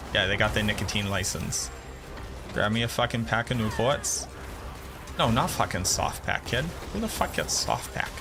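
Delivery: hammed-up Boston local; playing up Boston street talk; Boston accent. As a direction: lay on a thick Boston accent, dropping the r's. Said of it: "my accent only comes out when I'm reminded".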